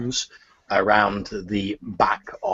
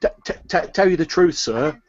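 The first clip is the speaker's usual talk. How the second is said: higher, gushing thanks; a pleased market woman gushing; grateful turnip seller; 5 semitones higher than usual. Acted. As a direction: thank him, thrilled by the coins. Seller stammers.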